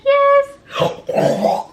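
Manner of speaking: very high, loud eager yes; excited yes. Retold or imitated. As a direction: burst with eagerness. Ready to meet the baby.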